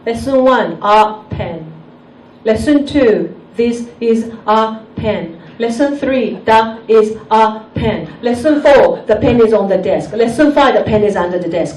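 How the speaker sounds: English lesson read out word by word; mild mock classroom recital; textbook recitation. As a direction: lightly imitate a school drill, evenly spaced words. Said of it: "I have to learn English like".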